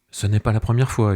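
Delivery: high, loud yell. Acted. Wife yells at her husband, high and loud. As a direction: hurl the accusation at him. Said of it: "hurle-t-elle".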